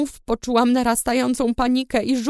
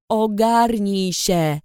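sharp order; 3 semitones lower, much slower than usual. A narrator's reading. Rider shakes her by shoulders.

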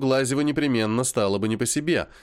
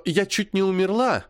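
nasty mimicry; 7 semitones higher than usual. A narrator's reading. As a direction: drag it out in a nasty whine. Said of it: "передразнила сестру необычайно противным голосом".

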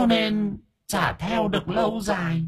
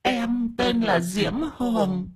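high, slow, soft tearful wail; hammed-up weepy ghost voice, drawn out; whimpering and sobbing; 14 semitones higher, 4 dB quieter than usual. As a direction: whine your sorrows slowly in a high voice. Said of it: "rồi bắt đầu nó thút thít khóc".

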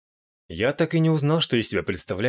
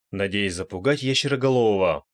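usual speaking voice

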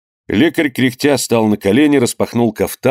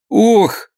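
high sharp cry of pain; 12 semitones higher, 3 dB louder than usual. A narrator's reading. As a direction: yelp as he falls back. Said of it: "вскрикнул он". (раненый муж вскрикивает от боли, падая на лавку)

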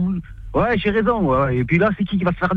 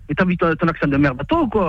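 ordinary talk

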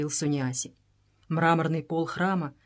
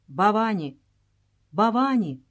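solemn call to a goddess, slightly raised; solemn invocation; 3 semitones higher, 4 dB louder than usual. A narrator's reading. Суниаси invokes the goddess before worshippers, solemn. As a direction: intone the name with ceremony. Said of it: "торжественным голосом проговорил Суниаси".

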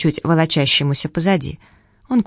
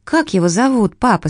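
put-on higher, curious girl's voice; little girl asking; 5 semitones higher than usual. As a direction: ask like a small girl. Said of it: "спросила Дженни".

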